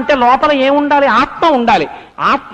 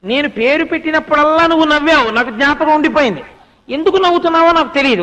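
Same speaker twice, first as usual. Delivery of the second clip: higher-pitched, mildly aggrieved husband; acted protest; 5 semitones higher, faster than usual. King complaining that his wife always laughs, protesting. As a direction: lodge a grievance with raised pitch.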